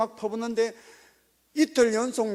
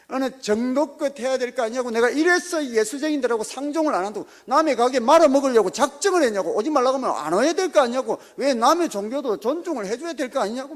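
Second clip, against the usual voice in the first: mildly raised, indignant scolding of a churchgoer; retold angry rant; 3 semitones higher, 4 dB louder than usual. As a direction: act out the shop owner's angry ranting, lightly louder. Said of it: "막 하면서 입에 십 원짜리가 나오고". (화난 사장님 흉내, 약간 큰 소리로)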